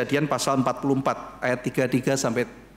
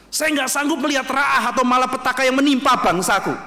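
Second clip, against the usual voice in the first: pleading; 10 semitones higher, 4 dB louder than usual. Retold or imitated. Esther pleads to the king.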